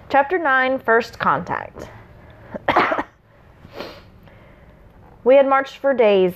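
measured storyteller's read; story narration. A narrator's reading. Reading the prologue to listeners, story narration. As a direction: read it out with mild dramatic weight. Reads the chapter aloud.

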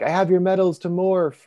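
mild mock yell; retold yell. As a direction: imitate calling out to a group, half-strength. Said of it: "he yells at them".

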